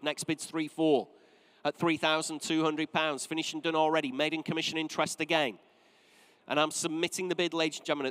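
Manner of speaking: rhythmic, insistent calling of the bid; auctioneer's bid calling. Acted. Auctioneer to room and phones, calling bids rhythmically. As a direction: drive the bidding on.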